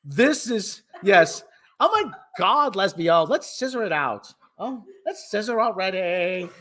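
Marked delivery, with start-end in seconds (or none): 1.8-6.5 put-on lightly whined Valley Girl impatience; Valley Girl accent. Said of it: "have a Valley Girl accent".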